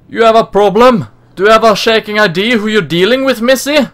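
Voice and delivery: poorly done Cockney. Acted. Game character challenging Missy to a fight, poor Cockney accent. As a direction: confront them in a put-on Cockney. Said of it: "I went from a poorly Cockney accent".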